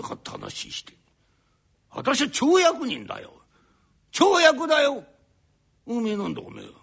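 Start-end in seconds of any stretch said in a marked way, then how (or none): none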